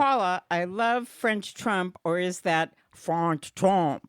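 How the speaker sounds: reading the card in a put-on French accent; a slow, hammed-up French accent; mock French accent. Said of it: "that accent, phenomenal".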